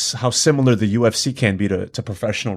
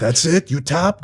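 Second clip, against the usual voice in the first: mock Russian accent; 6 semitones higher, slower than usual. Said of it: "I'm butchering the Russian accent".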